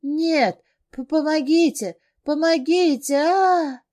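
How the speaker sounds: high, loud stammered cries of help; terrified screams for help. Acted. Trapped heroine screams for help, terrified. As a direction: shriek for help in panic.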